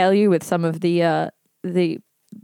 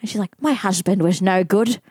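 put-on old lady voice; 4 semitones higher than usual. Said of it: "imitating an old lady".

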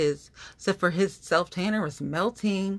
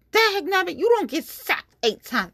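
high, loud comic outburst; mock exasperation; 14 semitones higher, 5 dB louder than usual. Real, not acted. Ranting about the Bengals.

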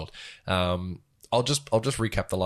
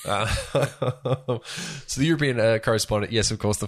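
lightly put-on pan-European accent, raised and loud; 4 semitones higher, 4 dB louder than usual. Lightly put-on pan-European accent for the mock correspondent segment. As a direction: play a vague pan-European reporter. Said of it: "This is a pan-European accent".

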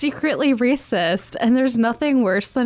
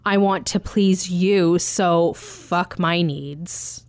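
mock robotic wife; 5 semitones lower, much slower than usual. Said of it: "like, robotic".

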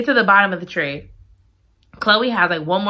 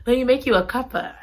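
mock British; 4 semitones higher, faster than usual. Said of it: "This British stuff is taking me out".

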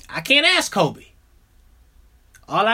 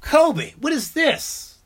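higher, slow appalled question; 4 semitones higher, much slower than usual. Retold or imitated. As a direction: ask her what this is, aghast. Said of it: "I'm like".

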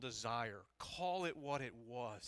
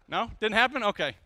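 mock surprise; 9 semitones higher, 15 dB louder than usual. Playful check with congregation.

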